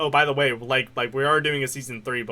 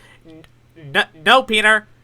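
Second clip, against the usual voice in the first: super nasal put-on voice, higher and louder; 7 semitones higher, 8 dB louder than usual. Imitating Lois after another speaker calls her voice nasal: super nasal Lois voice. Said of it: "her voice is, like, super nasally".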